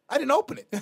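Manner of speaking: sheepish admission. Retold or imitated. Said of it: "I go".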